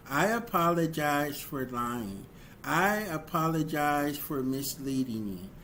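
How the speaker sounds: a plain, humble, accountable apology, slowing right down on the final plea; sincere apology. Shown as a demonstration. Showing the audience a good apology, sincere and humble. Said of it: "A good apology sounds like this".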